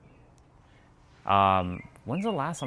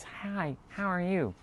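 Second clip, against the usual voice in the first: much higher, light greeting; lighter voice; 10 semitones higher, 4 dB quieter, slower than usual. Retold or imitated. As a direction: lift the voice up high and light. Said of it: "have a more lighter voice".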